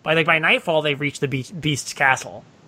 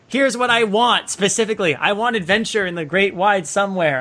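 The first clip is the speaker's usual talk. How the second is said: imitating Belle; 4 semitones higher than usual. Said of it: "She's just like".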